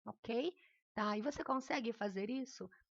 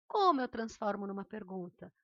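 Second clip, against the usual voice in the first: COMO punched louder as a question; question intonation; 6 dB louder than usual. Shown as a demonstration. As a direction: lean on Como to make it clearly a question. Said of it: "Da forma que eu acabei de fazer".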